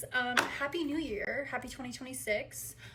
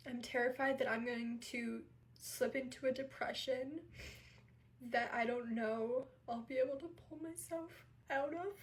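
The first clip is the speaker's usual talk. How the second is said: crying, worn out; 4 dB quieter than usual. Real, not acted. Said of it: "I have been in tears".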